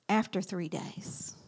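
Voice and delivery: whispered ending; hushed. Real, not acted. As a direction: let it fall into a whisper.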